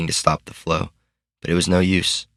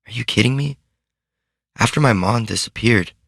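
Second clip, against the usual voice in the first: put-on eager higher girl voice; Sid's voice, higher; 5 semitones higher than usual. A narrator's reading. Sid reassuring her friend, earnest higher voice. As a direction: lift the voice into an earnest young girl.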